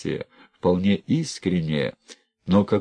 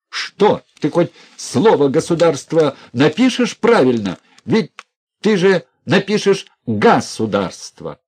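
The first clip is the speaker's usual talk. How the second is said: loud, high, enraged yelling; full-throated angry outburst; furious shout; 8 semitones higher, 6 dB louder than usual. A narrator's reading. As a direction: scream insults at her. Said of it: "он закричал неприлично".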